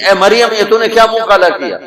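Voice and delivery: quick, high, laughing reproach; scornful taunt. Retold or imitated. Crowd shaming Maryam, quick laughing scorn. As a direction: jeer at her fast and high. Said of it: "دوسرا طنز".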